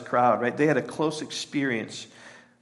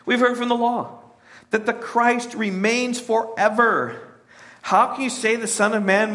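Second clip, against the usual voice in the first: higher, puzzled crowd; lightly voiced crowd challenging Jesus; questioning crowd; 7 semitones higher than usual. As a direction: voice the crowd's objection. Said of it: "the crowd answered him and said".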